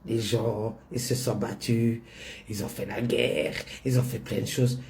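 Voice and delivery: a lightly voiced elderly mother lecturing; old mother's voice. Daughter voices her old mother.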